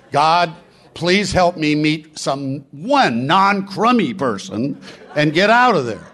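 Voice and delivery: a whiny, slowed plea to God, half laughing; mock networking prayer. Speaker mocks a networker's selfish prayer, wry and amused. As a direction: pray sarcastically to escape a dull crowd. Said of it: "you say the networking competitive prayer".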